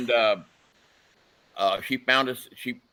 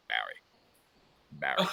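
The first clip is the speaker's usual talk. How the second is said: Rocky ringtone; 11 semitones lower, 7 dB quieter, much faster than usual. Retold or imitated. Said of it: "his ringtone".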